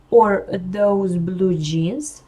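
"or those blue jeans?" very slowly and deliberately, stressed on "or"; closing half of the alternative question, taught slowly; second-part tune. Shown as a demonstration. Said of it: "Висхідна інтонація і несхідна".

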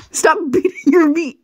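breathy giggling whisper aside. Real, not acted. Reader mocks the story in a hushed whisper. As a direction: sneak a rude joke under your breath.

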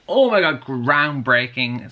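sarcastic gush, then a slow drawn-out groundbreaking; mock amazement that falls flat; mock awe, groundbreaking drawn out slowly. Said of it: "I was like".

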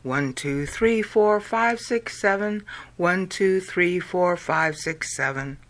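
even rhythmic count to seven, twice; counting the beat. Shown as a demonstration. Teacher counting the song's syllables aloud. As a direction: tap out each number on the beat. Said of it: "Notice how it's seven and seven".

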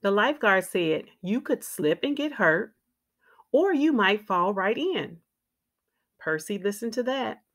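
put-on lively, clearly phrased read-aloud for young children; picture-book narration. A narrator's reading. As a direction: read a children's story with expressive ups and downs.

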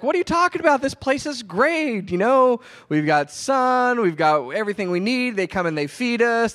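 high, bright cartoon animal chorus; lightly voiced contented zoo animals; animal friends voice. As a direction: voice the zoo animals, delighted and carefree. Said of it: "And they're like".

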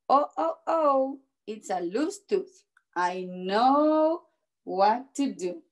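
measured read-aloud with stressed key words; storybook narration. A narrator's reading. Teacher reading a picture book to children, storybook narration. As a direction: read it out carefully to young children.

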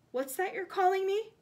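high, loud challenge; defiant. A narrator's reading. Frank challenging the cold voice, loud defiance. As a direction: throw the question back boldly. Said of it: "said Frank defiantly".

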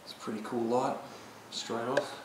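speaking through a face mask, muffled; muffled voice behind a mask. Real, not acted. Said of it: "so if I sound a bit muffled".

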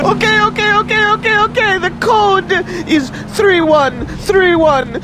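panicked surrender. Acted. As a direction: give in, whimpering under threat. Gives up code under threat.

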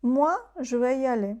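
"Moi" loud and rising, set apart by a pause; stress on Moi. Shown as a demonstration. Teacher giving another emphatic pronoun example, stress on "Moi". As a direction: punch "Moi", then carry on. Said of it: "Він наголошений вдвічі".

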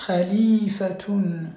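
Khalifatun spelt out slowly with a guttural kh, each syllable clear, ending tun; slow model pronunciation. Shown as a demonstration. Teacher to pupils, slowly modelling Khalifatun with guttural kh.

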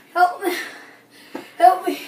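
laughing plea for help. Real, not acted. Stuck on the ground.

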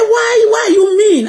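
high, loud retold demand; acted outburst, voice jumping up loud; indignant challenge. Doctor challenging a reluctant helper, indignant and loud.

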